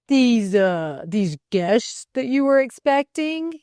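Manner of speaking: halting, loud probing question; hesitate, then press the question. A narrator's reading. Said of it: "he questioned".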